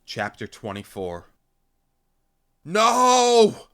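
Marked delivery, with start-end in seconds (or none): 2.6-3.7 long, high, full-force cry; scream. A narrator's reading. Narrator seeing comrade attack humans, drawn-out scream. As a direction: scream to stop a disaster. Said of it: "I screamed".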